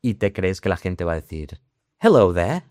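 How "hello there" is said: hammed-up posh British greeting; mock-formal RP, pitched up, slow and precise; RP accent. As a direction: put on a textbook British accent. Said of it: "un taxista un acento R P".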